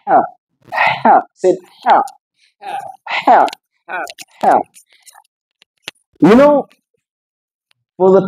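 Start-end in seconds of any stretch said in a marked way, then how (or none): 0.0-4.6 "Ha" with a tight, squeezed throat, like Arabic ḥāʾ; compressed ha. Shown as a demonstration. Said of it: "you are going to what? Compress it".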